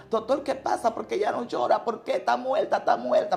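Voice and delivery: mildly panicked, pleading with the doctor; retold nervous panic. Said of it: "Me puse nerviosa". (nerviosa y angustiada, reviviendo el momento)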